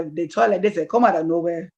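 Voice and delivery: demonstrating an African-accented inner voice. Shown as a demonstration. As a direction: slip lightly into an African accent. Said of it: "Some of them are African".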